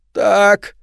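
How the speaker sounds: high, loud rasping ghoul voice; eldritch rasp. A narrator's reading. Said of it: "хрипит голодный".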